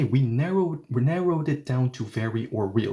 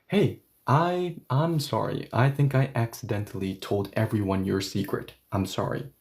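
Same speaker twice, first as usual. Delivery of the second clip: sheepish apology; 2 semitones lower than usual. Pretend. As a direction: own up to a friend, voice dropping. Friend confessing, voiced in an example.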